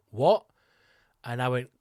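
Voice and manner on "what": loud baffled what; startled barber; surprised what. Retold or imitated. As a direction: bark a bewildered question. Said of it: "And he said".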